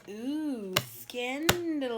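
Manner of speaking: high, slow, drawn-out ooh scandalous; titillated. Real, not acted. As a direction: savour the juicy gossip. Reacting to drawn tarot card.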